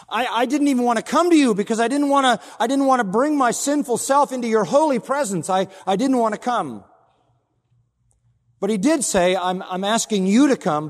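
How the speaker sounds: fervent preaching. Acted.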